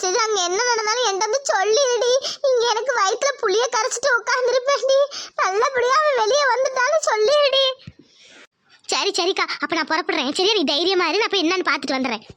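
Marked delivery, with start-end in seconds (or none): 5.4-7.7 tearful begging. Acted. Mother begs tearfully.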